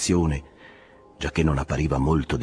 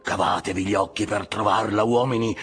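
raised voice slowing into a drawn-out final cry; fervent exhortation; 7 semitones higher, slower than usual. A narrator's reading. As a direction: urge the crew on, stretching the last command. Ahab urges crew to search. (esortazione accorata, sempre più lenta)

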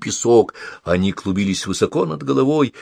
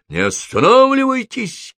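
high, urgent shouted command; barking an order; 13 semitones higher than usual. A narrator's reading. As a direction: bark it to keep her running. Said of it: "рявкнул Холл". (рявкнуть на бегу)

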